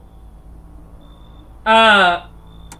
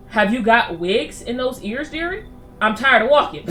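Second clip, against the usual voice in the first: put-on old lady voice; slower than usual. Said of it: "an old lady like me".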